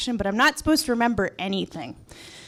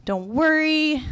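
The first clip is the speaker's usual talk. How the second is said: lightly voiced nurse, higher and lilting; reassuring nurse; 7 semitones higher, slower than usual. Anesthesia nurse to patient before surgery, lightly reassuring. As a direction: soothe a nervous patient, pitch raised.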